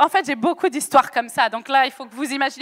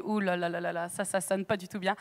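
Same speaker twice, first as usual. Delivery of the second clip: uh-oh; 9 semitones lower, 13 dB quieter than usual. Retold or imitated. Inner dread at the corridor.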